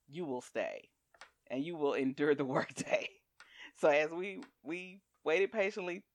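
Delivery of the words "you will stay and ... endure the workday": stern boss order. Retold or imitated. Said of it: "my college, no".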